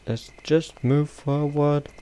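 hushed and slow; barely above a breath, creeping; whispering while hiding. Real, not acted. Creeping past a monster in game.

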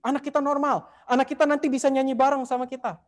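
very happy. Retold or imitated. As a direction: tell your wife the great news, delighted. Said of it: "Bapaknya seneng banget ngomong ke istrinya". (ayah berseru gembira kepada istrinya, suara lebih tinggi)

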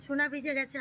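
tender coaxing. Real, not acted.

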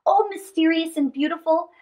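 a hint of wonder in Anansi's voice; mildly awed spider; lightly voiced Anansi. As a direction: marvel at the glowing globe. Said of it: "said Anansi".

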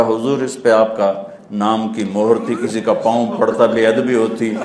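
grin through the clever excuse; laughing reply. Acted. (ہنستے ہوئے جواب)

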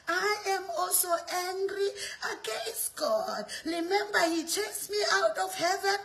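a hint of a wheedling devil; devil's voice. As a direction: play a tempter coaxing followers to join. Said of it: "He's saying".

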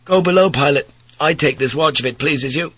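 put-on a weary young Dutch sailor pleading; Dutch mate. Third mate Hendrik speaks.

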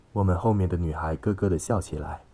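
ordinary delivery, nothing marked

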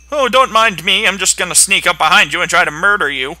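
high, loud faux-innocent; mock innocent. Player sneaking up on a mob, mock innocent. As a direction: say it sweetly, full of menace.

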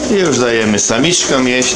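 normal talking voice

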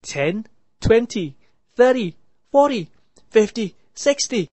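a hidden voice counting up; mysterious voice. A narrator's reading. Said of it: "a voice came out from somewhere".

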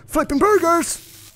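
high, loud exclamation; playful burst of shouting; excited yell. Real, not acted. Exclaims while frantically playing.

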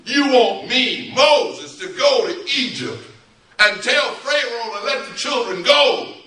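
high, insistent recap in disbelief; incredulous Moses. Acted. Moses reading God's orders back to him, incredulous.

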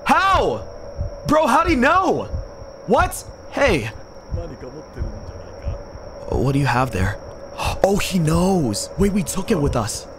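high frantic panic; panicked high voice. Real, not acted. Panicked reactions in horror game.

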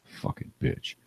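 whispered curse under the breath; a mock muttered insult, unvoiced; under his breath. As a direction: hiss it behind their back, voiceless. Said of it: "under his breath, he'd go".

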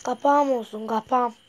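loud triumphant gloat; gloating shout. Real, not acted. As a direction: crow it out loud. Gamer gloating after success.

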